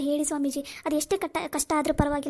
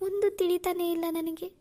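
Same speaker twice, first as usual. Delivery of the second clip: tearful despair; 2 semitones higher than usual. Acted. Alone in temple, weeping over Sagar.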